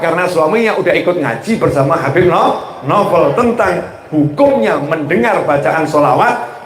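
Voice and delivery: ordinary talk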